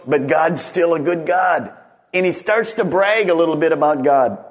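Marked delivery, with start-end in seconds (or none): 0.1-1.7 ringing shout of faith; preacher's proud shout; bold declaration. Retold or imitated. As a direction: call it out like a boast about God. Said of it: "he turns and he goes".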